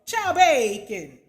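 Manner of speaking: loud, drawn-out mock French accent. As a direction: belt it out slowly in a put-on French accent. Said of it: "I wanna use my French voice".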